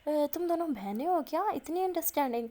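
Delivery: retold astonishment, pitch swinging up; impressed surprise. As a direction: act out an impressed, teasing query. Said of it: "کافی impress ہو جاتی ہے".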